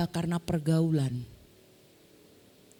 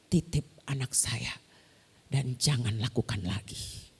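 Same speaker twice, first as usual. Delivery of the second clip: low, slow, hushed request; restrained motherly warning, pitched low; quiet firm warning; 8 semitones lower, 5 dB quieter than usual. Retold or imitated. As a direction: entrust the child with a soft warning. Mother quietly warns the teacher.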